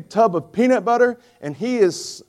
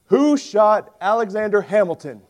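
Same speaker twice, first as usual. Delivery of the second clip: radio host; 5 semitones higher, 4 dB louder than usual. Retold or imitated. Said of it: "the radio host ... he says".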